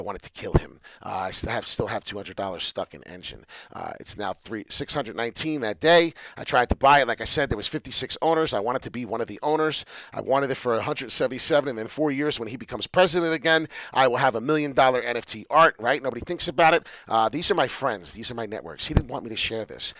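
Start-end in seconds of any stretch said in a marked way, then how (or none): none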